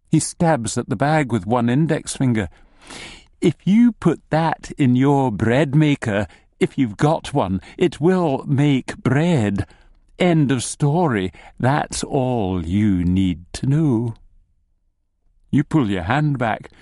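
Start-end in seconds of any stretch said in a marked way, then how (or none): 3.4-14.1 lightly voiced gnome laying down the law; emphatic opening, slowing to a firm finish; insistent gnome. Gnome sternly warns the customer.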